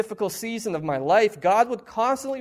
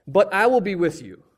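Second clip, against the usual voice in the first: louder, firm divine promise; 6 dB louder than usual. Shown as a demonstration. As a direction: declare it with full weight.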